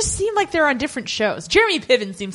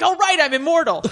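cocky Captain Jack; 6 semitones higher than usual. Retold or imitated. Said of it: "Captain Jack being like".

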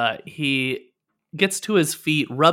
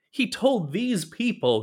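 higher, slow, aggrieved complaint; indignant; 6 semitones higher than usual. Acted. Captive tells of his betrayal, indignant. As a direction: stretch it out with indignation.

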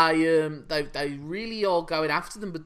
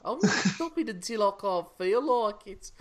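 put-on playfully stubborn Black Country accent. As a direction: keep the Black Country accent going with relish. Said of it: "in that accent".

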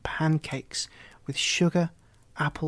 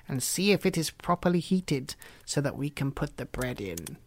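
sly witch. Acted. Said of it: "said the witch".

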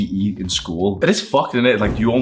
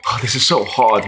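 whiny complaining. Acted. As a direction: moan like a lazy gym newbie. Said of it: "he keeps complaining".

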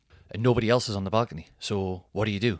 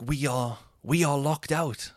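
slow, spaced-out mock explanation; slow for a foreigner; 3 semitones higher, slower than usual. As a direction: spell it out slowly for someone who speaks little English. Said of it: "just speak loud and slow".

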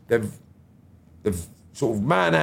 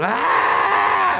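retold scream; 9 semitones higher, 3 dB louder than usual. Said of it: "she's just gone".

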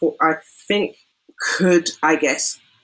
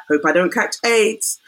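mock-chirpy quote, pitched higher; lightly sarcastic retelling of a flippant post; mildly sarcastic; 4 semitones higher than usual. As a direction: toss it off higher, as an imitated joke. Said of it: "she meant it sarcastically".

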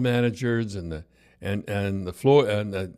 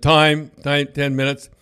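loud call for a break; calling time; 2 semitones higher, 6 dB louder, slower than usual. Retold or imitated. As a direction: call the room to a halt.

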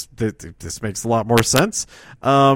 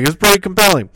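higher, louder mock-serious approval; mock wrestler voice; 6 semitones higher, 5 dB louder, much faster than usual. Wrestler approving the idea in a mock voice. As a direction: pronounce it pompously, leaning in. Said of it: "he's like".

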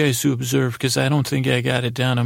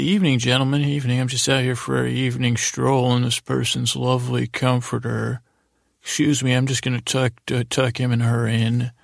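Scoots character voice. Acted. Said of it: "we slip in old Scoots here".

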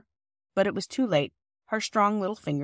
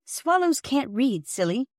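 scornful; 6 semitones higher, slower than usual. A narrator's reading. Peter scolding sister.

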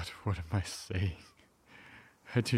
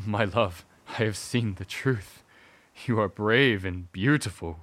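leading man; 4 dB louder than usual. Acted. Husband declares love to wife.

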